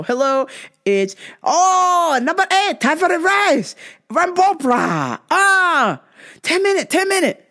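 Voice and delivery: high, clipped imitation of the Thai restaurant clerk's accent; mock Thai accent. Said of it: "They know me when I call".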